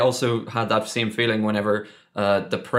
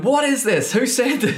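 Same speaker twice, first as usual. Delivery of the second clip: high, incredulous questions; bewildered; 13 semitones higher than usual. Retold or imitated. Players passing around fake news, high and bewildered. Showing the paper to each other.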